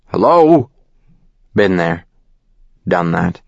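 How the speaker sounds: a voice from the speakerphone. Acted. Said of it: "The speakerphone is saying".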